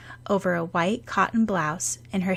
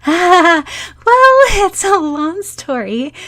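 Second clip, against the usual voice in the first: sheepish; 11 semitones higher, 10 dB louder, slower than usual. Acted. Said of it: "twiddling her thumbs".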